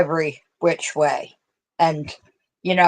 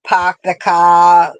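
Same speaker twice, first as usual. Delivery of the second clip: put-on Boston accent; 5 dB louder, slower than usual. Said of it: "find out you're from Boston".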